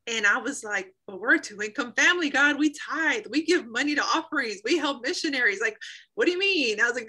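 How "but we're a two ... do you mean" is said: higher, louder, pleading protest; arguing with God. Retold or imitated. Haggling with God about quitting her job, mock pleading protest. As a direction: bargain with God in disbelief.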